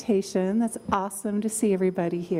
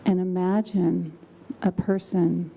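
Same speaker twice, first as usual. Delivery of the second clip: calm, slow meditation voice; guided meditation; slower than usual. Acted. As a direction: guide them gently into calm.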